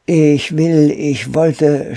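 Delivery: high, loud, hesitant stammer; startled stammer. A narrator's reading. Startled boy answers the armed ape, stammering. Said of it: "stotterte Pole Pole".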